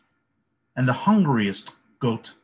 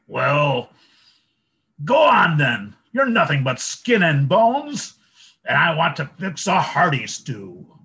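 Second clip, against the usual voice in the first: high, loud grumbling troll; 4 semitones higher, 6 dB louder than usual. A narrator's reading. Troll waves the little goat on, loud and high.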